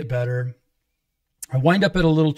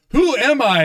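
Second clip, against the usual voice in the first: high, louder incredulous question; retold self-disbelief; 9 semitones higher, 5 dB louder than usual. Man who just lost it questioning himself, incredulous. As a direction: exclaim it high, questioning yourself.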